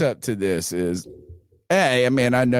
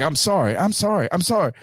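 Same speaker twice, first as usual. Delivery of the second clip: tag; 6 semitones higher, faster than usual. Retold or imitated. Imitates the friend's repeated apology.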